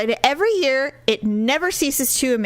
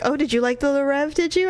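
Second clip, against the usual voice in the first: teasing mother; 5 semitones higher, faster than usual. Retold or imitated. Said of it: "I'm like".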